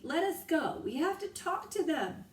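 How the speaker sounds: high, loud protest; yelled struggle. A narrator's reading. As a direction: yell while kicking free. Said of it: "yelled Annie".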